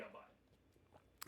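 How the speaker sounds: breathless, slow conspiratorial whisper; whispered aside. Pretend. Co-host muses about buying the game, joking whisper. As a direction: murmur it like a secret you half mean.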